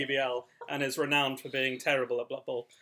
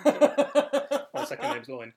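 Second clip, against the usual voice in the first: silly high voice; 10 semitones higher, 7 dB louder, much slower than usual. Pretend. Joking pun on sirloin.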